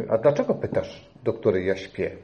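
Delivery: drowsy, low and soft, just woken; sleepy voice. Retold or imitated. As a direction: sound half asleep on the phone. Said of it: "mówisz takim zaspanym głosem". (zaspany, cichy głos)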